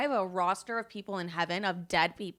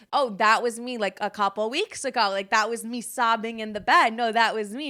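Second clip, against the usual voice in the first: loud, mock-dramatic insistence; emphatic recognition; 6 dB louder than usual. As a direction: own up to it loudly and emphatically. Insists the card depicts her.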